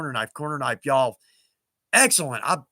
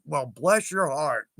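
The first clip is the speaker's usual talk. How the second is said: slow, sugary bless with a sly edge; sarcastic blessing; 3 semitones lower, slower than usual. Shown as a demonstration. Explaining Southern slang, a slow sarcastic bless. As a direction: drawl it out, meaning moron. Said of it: "Southern way of saying you moron".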